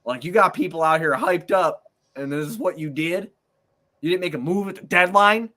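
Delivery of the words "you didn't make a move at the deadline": high, loud incredulous question; loud, high-pitched exasperation; exasperated disbelief. Real, not acted. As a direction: throw it out in outraged disbelief. Ranting at team's deadline inaction.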